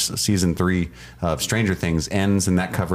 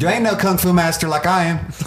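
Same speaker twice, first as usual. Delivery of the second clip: hammed-up hillbilly; 10 semitones higher, 3 dB louder than usual. Redneck kung fu parody.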